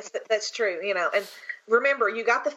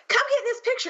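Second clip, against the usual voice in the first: high mock insistent call to join the photo; playfully voices Shag waving her over; imitating Shag; 14 semitones higher, faster than usual. Retelling a con photo, voices Shag calling, high and pushy. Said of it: "And he's like".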